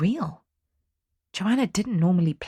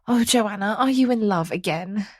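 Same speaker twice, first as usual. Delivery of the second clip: worried mother can't hide it; fretful apprehension; 6 semitones higher than usual. A narrator's reading. Mother asks daughter if she's in love, fretful. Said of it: "could not keep the fretful apprehension out of her voice".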